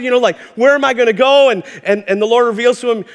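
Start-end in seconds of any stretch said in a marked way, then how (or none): 0.6-1.5 eager. Retold or imitated. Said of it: "he's all excited".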